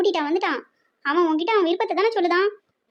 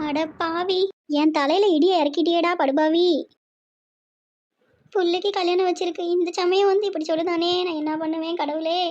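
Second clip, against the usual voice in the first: mother's anguished wail of reproach; crying out in dismay; tearful lament. Acted. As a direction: lament as if disaster has struck. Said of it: "அழாதம்மா".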